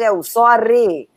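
put-on slow Italian-accented é o sorry. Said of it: "sotaque italiano".

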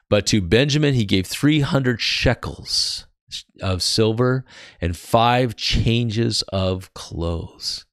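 measured, emphatic Bible reading; scripture reading. Acted. Preacher reading Joseph's gifts to his family, emphatic scripture reading. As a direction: read out the list of gifts.

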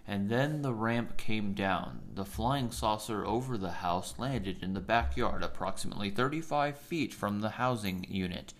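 flat, slow, droning storyteller; monotone narrator. Retold or imitated. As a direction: read it deadpan with no tune. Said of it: "it will just be so damn monotone".

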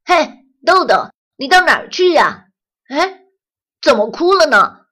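loud, high call across to a friend; loud bright hail turning concerned; friendly call. Acted. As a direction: shout out cheerfully, then worry. Calling out, then concern.

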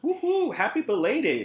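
high whooping birthday cheer; excited cheer. Real, not acted.

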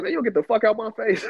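high, loud mock yell at his son; mock angry dad. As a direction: blow up like a fed-up father. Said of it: "He's like".

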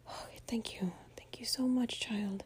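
soft whispered mock thanks; sarcastic whisper. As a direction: thank her under breath, dryly.

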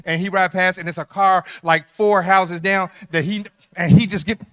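loud, driving sermon voice; preaching at full force. Acted. Pastor teasing the men in church about cheating, loud preaching.

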